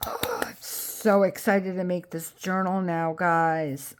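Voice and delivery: thrilled breathy whisper; excited whisper. Real, not acted. Crafter telling viewers about her new journal, excited whisper. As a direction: whisper it like you can't contain it.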